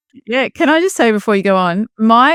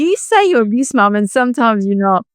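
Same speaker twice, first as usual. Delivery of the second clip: mimicking kids; 4 semitones higher than usual. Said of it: "my kids call me out".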